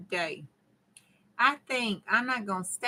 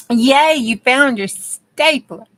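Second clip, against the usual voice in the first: cheering; 4 semitones higher, 11 dB louder, slower than usual. Real, not acted. Cheering a viewer's found stapler.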